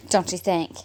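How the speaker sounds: loud, slow laughing mock lyric. Real, not acted. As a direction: laugh through the ironic line. Laughing, mocking ironic coincidence.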